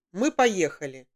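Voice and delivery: usual speaking voice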